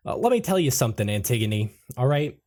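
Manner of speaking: put-on a half-held character accent, rattled off; Gobert's accent attempt. GM voicing Gobert to the players, light put-on accent. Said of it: "I'm gonna try and stick to this accent".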